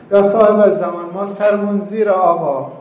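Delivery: high, loud impassioned plea; fervent loud cry of a sermon. Real, not acted. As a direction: call out to the Imam with full force. Preacher cries out to the Imam.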